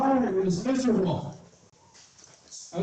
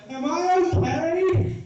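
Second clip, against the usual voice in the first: dazed question; 6 semitones higher, slower than usual. Retold or imitated. Dazed after scooter crash.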